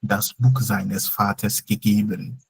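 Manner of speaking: very slow, word by word dictation; slow model sentence. Shown as a demonstration. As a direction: spell the sentence out slowly for the learner. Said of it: "But you can also say".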